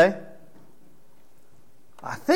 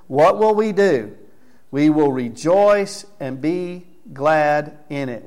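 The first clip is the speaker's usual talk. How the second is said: preaching the verse; 3 dB louder, slower than usual. Acted. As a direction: rouse the congregation, then land it slowly. Preacher leads verse call-and-response.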